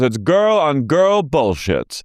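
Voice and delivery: slow, high parody; imitating Bronwyn. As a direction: spell it out word by word. Mimicking Bronwyn.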